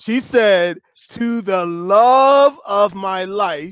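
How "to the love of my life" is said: slow, deliberate, intentional reading. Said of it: "I wanted to read it slow and intentional".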